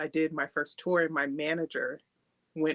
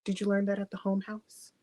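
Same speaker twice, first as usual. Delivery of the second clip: put-on teasing boyfriend; 4 semitones higher than usual. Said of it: "he'll be like".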